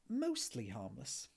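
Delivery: sheepish, slow, trailing up on "Mostly harmless"; embarrassed admission. Acted. Ford sheepishly admitting the new entry to Arthur. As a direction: admit it reluctantly, drawn out. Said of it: "admitted Ford with a slightly embarrassing cough".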